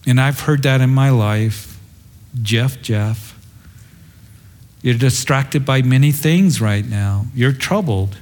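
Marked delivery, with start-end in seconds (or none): 2.4-8.2 gentle, understated reproof; tender. Acted. The Lord to the troubled preacher, gently tender. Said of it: "He says it very tenderly".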